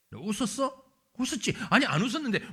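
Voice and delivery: God and Sarah bickering, laughing through it; a teasing back-and-forth, half laughing; playful quarrel. Acted. Preacher acts God and Sarah arguing over the laugh, laughing.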